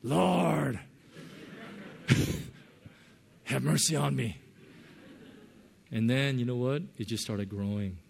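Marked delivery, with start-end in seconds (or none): 0.0-4.4 awkward try. Retold or imitated. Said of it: "it felt kinda awkward".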